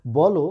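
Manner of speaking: বলো with the final o sounded; open final vowel. Shown as a demonstration. Teacher comparing two pronunciations, বলো ending in o. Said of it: "একই জিনিস দুইভাবে উচ্চারিত হচ্ছে".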